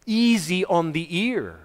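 slow, gentle phrasing; easy on the ear. Shown as a demonstration. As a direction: ease into it slowly. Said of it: "say it in a way that's very".

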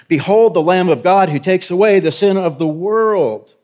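preacher voicing John's bold shout. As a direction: cry it out to the crowd. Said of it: "he's shouting".

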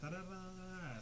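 very soft vocal noodling. Shown as a demonstration. Showing co-hosts how he normally talks on mic, very softly. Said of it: "'Cause normally I'd be like this".

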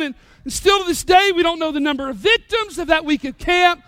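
normal talking voice

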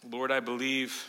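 low, hushed plea to God; quiet prayer. Acted. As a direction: pray it softly and humbly. Humble prayer after the storm.

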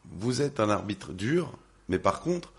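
hoarse, worn-out voice after a concert. Real, not acted. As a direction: talk through a spent voice. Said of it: "Désolé, j'ai plus de voix".

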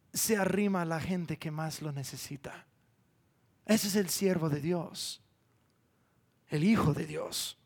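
soft and low, with pauses between phrases; hushed, reverent conclusion. Real, not acted. Preacher describing the servant who draws near the needy, hushed. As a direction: bring it down gently, almost to a hush.

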